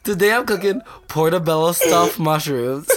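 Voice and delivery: lightly imitated cooking host, fighting laughter; retry the mock video intro, nearly cracking; Zach. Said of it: "he's like this".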